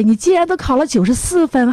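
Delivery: "竟"字高声重读, 语调下落; 高高地惊叹"竟然"; 惊喜夸奖. Shown as a demonstration. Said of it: "我们现在就给妈妈做一个示范". (示范夸孩子, 重读"竟"并下落)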